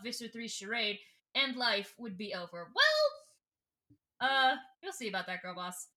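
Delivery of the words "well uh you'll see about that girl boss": hammed-up taunting well; mock villain. Visser taunting the girl boss, hammed-up.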